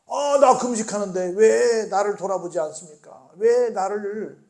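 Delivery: whiny complaint slowing on 왜 나를; 알아달라고 투정하는 흉내; mock whining. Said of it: "라고 말을 하고 있다는 겁니다".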